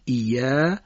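ایا drawn out on its final long a; leaning on alef. Shown as a demonstration. Teacher showing listeners the resting point, held alef. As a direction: rest the voice on the a of ایا. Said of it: "تکیه قرار بدید".

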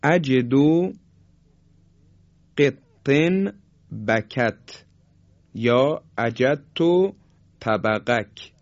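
اجدو قطن بکت spelled out, loud and crisp; اجدتو طبقک recited loud and clipped; emphatic recitation. Shown as a demonstration. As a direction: hit each stop letter hard, like a drill.

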